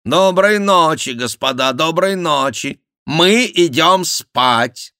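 high, loud mock royal voice, very slow at the end; imitating Henri. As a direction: ape the king's languid goodnight. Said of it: "подражая голосу Генриха". (насмешливое подражание голосу короля, высоко и громко)

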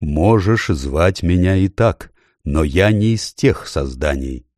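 slow, low bass voice; a lightly deepened mysterious voice; extremely deep bass voice. Acted. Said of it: "очень глубокий голос".

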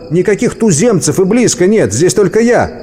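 high protesting call; крик. A narrator's reading. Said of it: "крикнул Дантон". (протестующий крик высоким голосом)

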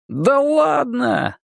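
high, long drawn-out brush-off; carefree. A narrator's reading. Vitka waves off friend's warning, carefree. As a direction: scoff it away without a care. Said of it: "беспечно усмехнулся Витька".

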